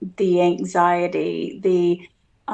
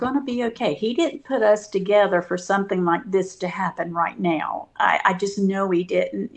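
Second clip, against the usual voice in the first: reassuring; faster than usual. Retold or imitated. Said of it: "I'm just constantly saying".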